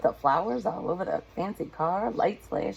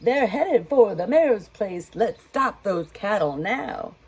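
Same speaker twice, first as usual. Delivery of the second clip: chief yelling; 2 semitones higher, 5 dB louder than usual. Acted. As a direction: yell the warning to the crew. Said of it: "The chief yelled".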